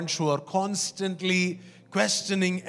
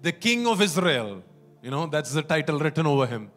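mocking dare; 3 semitones higher than usual. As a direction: dare him sarcastically. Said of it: "it says in the next verse".

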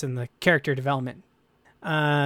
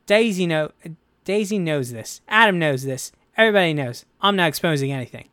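lightly put-on Boyega accent, emphatic; terrible John Boyega accent; 4 dB louder than usual. Host quoting John Boyega's frank interview, badly imitated Boyega accent. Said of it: "That's a terrible accent for John Boyega".

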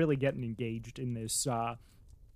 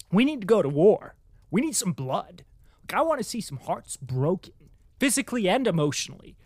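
fired-up rant; 3 semitones higher, 5 dB louder than usual. Retold or imitated. Reader telling Shin Shin off for pacifism, mock fired-up rant. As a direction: shout down the pacifist, hammed up. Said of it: "I was just getting fired up".

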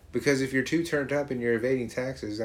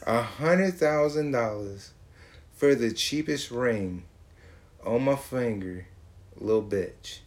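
slow mocking reread; slower than usual.

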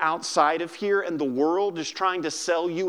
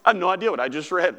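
baffled reader; 3 dB louder, much faster than usual. Retold or imitated. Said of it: "you went".

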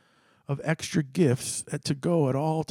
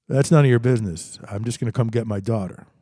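angry snap; 2 semitones lower, 6 dB louder than usual. Retold or imitated. Drunk father snaps.

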